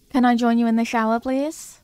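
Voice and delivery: hurried pleading knock at the shower; urgent plea. Acted. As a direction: rush the question, needing in now. Urgent after emergency call.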